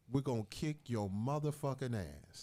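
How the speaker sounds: lightly voiced stern father; a hint of dad's threat; father's voice. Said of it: "let me say it in my father's voice".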